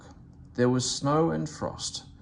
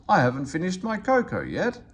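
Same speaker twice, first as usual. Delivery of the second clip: grumbled; 6 semitones higher, 3 dB louder than usual. A narrator's reading. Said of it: "the fireman grumbled".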